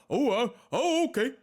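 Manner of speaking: airy dithering mock of a clueless mom; mocking Jennifer. Mocking the mother who let it happen, dithering. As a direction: play her dumbfounded and spineless. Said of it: "when in Jennifer".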